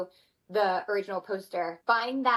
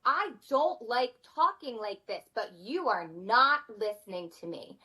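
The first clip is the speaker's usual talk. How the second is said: firm mama voice; 4 semitones higher than usual. Retold or imitated. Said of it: "I'm like".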